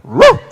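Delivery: high loud woof; dog bark. Pretend. Dog barking.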